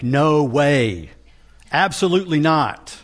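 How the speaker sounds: firm, insistent no way, absolutely not; forceful emphatic denial. Shown as a demonstration. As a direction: hit no way and absolutely hard. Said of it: "but that's an emphatic".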